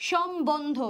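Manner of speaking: সম্বন্ধ as shom-bondho, b sounded; spelled-out pronunciation. Shown as a demonstration. Teacher puts the syllables together, spelled-out pronunciation. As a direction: join the parts of সম্বন্ধ, keeping the b clear. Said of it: "এভাবে হচ্ছে এটার উচ্চারণ".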